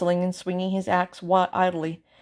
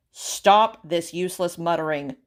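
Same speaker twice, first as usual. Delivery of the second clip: louder royal command; stern order; 5 dB louder than usual. Acted. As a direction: cut them off with an order. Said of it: "ordered the king".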